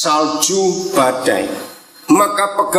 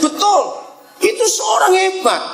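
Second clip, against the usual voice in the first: high praise; 13 semitones higher than usual. Real, not acted. Praising the boy.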